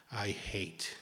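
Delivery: hushed, breathy confession of hate; whispered thought. Pretend. Meditator secretly thinking during peaceful meditation, whispered. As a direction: whisper the ugly thought under your breath.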